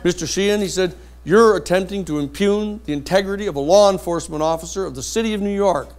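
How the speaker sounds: mock indignant judge. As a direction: scold like an offended judge. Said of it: "the judge says".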